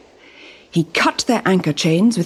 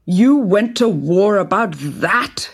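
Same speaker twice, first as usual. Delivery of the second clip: incredulous; slower than usual. Acted. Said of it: "he cried".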